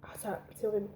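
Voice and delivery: grimace de dégoût, très doux; sour face. Real, not acted. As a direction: dire horrible la bouche tordue. Goûte le sirop. (voix grimaçante)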